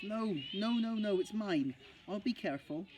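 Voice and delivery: put-on high childish protest; a little boy clinging to his branch; boy cries out his refusal; crying out. A narrator's reading. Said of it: "cried Max".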